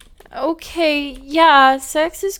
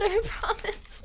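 put-on a pitched-up girly I promise with a laugh; fake e-girl voice; 2 semitones higher, 10 dB quieter than usual. Gamer girl pleading with her partner in her e-girl voice. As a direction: squeak it out in the cutesy voice. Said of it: "I'll stop doing the stupid voice".

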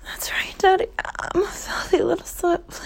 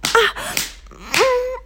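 higher moan; 7 semitones higher than usual. Acted. Moans during roleplay.

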